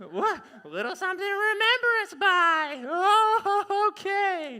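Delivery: high, loud surprised thanks; surprised wife. Acted. Wife receiving a farewell gift, high surprised. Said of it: "do all the dialogue".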